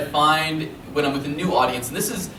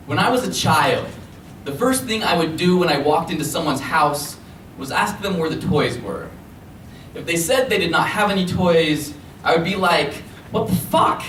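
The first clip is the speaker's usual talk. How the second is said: deliberate poem recital building to a punchline; spoken-word poem for a live audience; slam poem performance; 2 semitones higher than usual. Acted. Performs another poet's poem.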